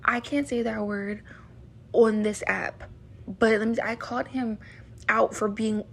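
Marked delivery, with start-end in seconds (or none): 1.9-2.8 hushed aside whisper. Real, not acted. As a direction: whisper it like a secret. Can't say the word on app.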